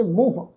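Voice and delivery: "ਮੂੰਹ" with a nasal long oo; nasalised vowel. Shown as a demonstration. Teacher showing the congregation the reading, "ਮੂੰਹ" nasalised. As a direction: sound "ਮੂੰਹ" through the nose at the vowel. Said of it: "ਬਿੰਦੀ ਲਗਾ ਕੇ ਪਾਠ ਉਚਾਰਨ ਕਰਾਂਗੇ".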